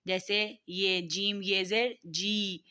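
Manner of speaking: slow, stretching the vowel in جی fully; drawn-out long vowel. Shown as a demonstration. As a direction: hold the long vowel of جی, don't clip it. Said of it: "حرکات کشیدے ہیں ان کو اچھی طرح سے پڑھنا ہے".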